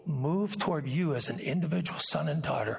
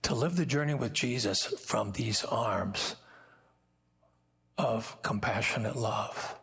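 tender whisper; 2 semitones lower than usual. Real, not acted. Preacher closing the thought to the congregation, tender whisper. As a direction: breathe it out gently.

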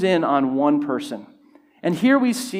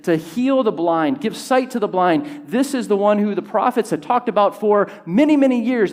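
excited declaration; 4 semitones higher than usual. Acted. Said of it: "This was like".

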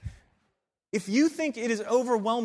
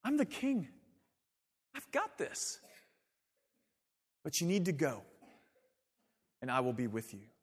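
gentle reassuring quote; 6 semitones lower, 8 dB quieter than usual. Retold or imitated. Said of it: "Jesus is saying".

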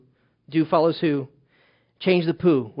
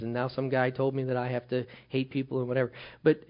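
closing prayer. Acted. Pastor praying over the church, earnest and unhurried. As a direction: hush the room and pray sincerely.

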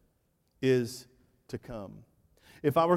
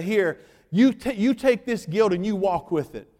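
mock shaming; 4 semitones higher, 5 dB louder than usual. God imagined shaming, preached louder.

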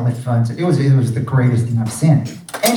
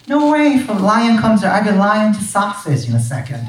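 mock boast; 7 semitones higher than usual. Boasting he can beat lion.

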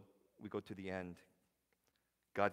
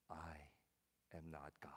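hushed, low whisper; humbled Job; 5 semitones lower, 11 dB quieter than usual. Retold or imitated. Job humbled before God, whispered. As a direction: whisper it, broken and small. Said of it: "Job immediately is humbled".

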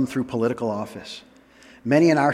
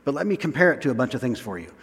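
imitated excitement; 2 semitones higher, faster than usual. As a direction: voice an eager writer who contradicts himself, dropping into a quick aside. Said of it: "Paul is so excited".

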